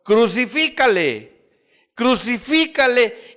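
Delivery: high, loud, drawn-out cry of a mob; crowd's shout. Retold or imitated. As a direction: shout it slowly, demanding a condemnation. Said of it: "ellos gritaron". (grito alto y alargado de la turba)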